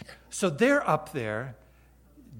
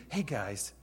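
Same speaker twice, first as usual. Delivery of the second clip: softer, casual and warm; Jesus casually inviting the disciples to breakfast by the shore; friendly invitation; 2 semitones lower, 6 dB quieter than usual. Acted. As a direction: invite your friends over, softly. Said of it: "a personal invitation from Jesus".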